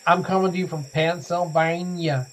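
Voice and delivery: mock southern US accent on the radio intro; terrible American accent. Shown as a demonstration. Host telling listeners where he broadcasts from, terrible American accent. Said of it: "That's my southern accent coming out again".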